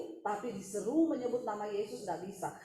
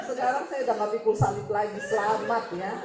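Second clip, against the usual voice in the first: fast, louder, laughing mockery; gloating through laughter; 6 dB louder than usual. Wife congratulates her rival while laughing, louder and fast. Wife mocks husband's mistress.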